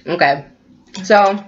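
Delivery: talking through a mouthful; words round a bite of noodles; mouth full. Real, not acted. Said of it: "don't wanna talk with my mouth full".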